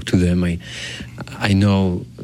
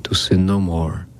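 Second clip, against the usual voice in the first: recited prayer. Acted. Priest praying an act of contrition, measured prayer. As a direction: pray it evenly, in short solemn phrases.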